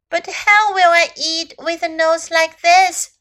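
a touch of a plaintive cry; lightly voiced worried little elephant. A narrator's reading. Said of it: "cried little elephant".

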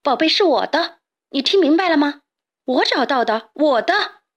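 shouting back. Acted. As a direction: shout over your shoulder while running. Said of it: "一边回头喊".

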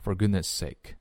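"goodness sake" with one shared s; linked s sounds. Shown as a demonstration. Teacher showing the shared s to learners, linked pronunciation. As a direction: run "goodness" straight into "sake" on a single s. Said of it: "最后的s和后面的sake连在一起".

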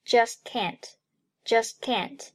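"just can't" with the t of "just" unreleased; dropped plosive. Shown as a demonstration. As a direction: slowly join "just can't", swallowing the first t. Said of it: "just爆破音，t，".

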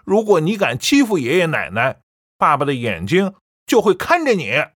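firm and loud, a stern warning; loud declaration. A narrator's reading. Son warning his mother about father's photo, firm loud. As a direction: lay down the law to her. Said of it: "小宝大声说".

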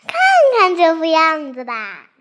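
a naughty girl mocking the beaten man; gloating laugh. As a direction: laugh at his misfortune. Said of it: "幸灾乐祸地嘲笑他".

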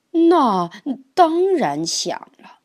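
eager turtle. Acted.

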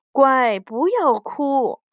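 slow, coaxing storybook mother; slow acted reassurance; soothing mother. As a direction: comfort a crying child, drawn out slowly. Mother comforts crying child in story.

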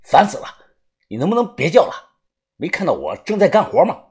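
annoyed scolding. Acted. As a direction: scold the noisy pet for interrupting your work. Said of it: "叫得我是心烦意乱".

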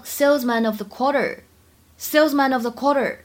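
"salesman of the quarter" with "salesman of" joined; linked sounds. Shown as a demonstration. Teacher modelling "salesman of the quarter", linked. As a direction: carry the n of "salesman" into "of". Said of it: "可以做连读".

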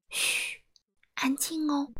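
soft, drawn-out shush; hushing. Acted. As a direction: gently hush the listeners. Narrator hushes the child listeners. (轻声嘘，示意安静)

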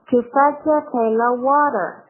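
teacher models the American water; American pronunciation. Shown as a demonstration. Teacher models the American water for students, clearly. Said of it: "我发的是一个美式的发音".

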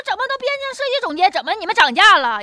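surprised. Retold or imitated. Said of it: "我说".

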